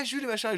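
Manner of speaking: high mock lisp, sh for s; lisping imitation. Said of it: "il faisait". (imitation d'un zézaiement, voix aiguë)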